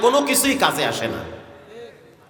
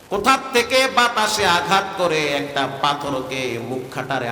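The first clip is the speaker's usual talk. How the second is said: sermon storytelling. A narrator's reading. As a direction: tell the hadith in a lilting preacher's chant. Preacher chants the hadith story. (সুরেলা ওয়াজের ভঙ্গিতে কাহিনি বলা)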